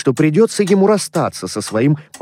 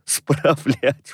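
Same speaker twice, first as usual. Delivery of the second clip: mildly incredulous echo; exclaiming; 2 semitones higher, 3 dB quieter than usual. A narrator's reading. Nephew echoing his uncle's word, exclaiming. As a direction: repeat the word in protest. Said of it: "воскликнул племянник".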